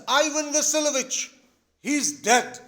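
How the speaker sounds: high, loud cry of alarm; acted scream. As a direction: call out as if he has died. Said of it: "And screams".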